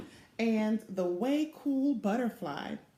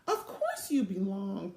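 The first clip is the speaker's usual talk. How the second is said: cooing mother. Acted. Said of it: "cooed Velma's mother".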